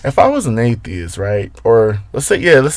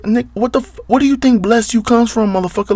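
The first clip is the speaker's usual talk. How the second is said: incredulous retort; 12 semitones higher than usual. Retold or imitated. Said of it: "I looked at this man".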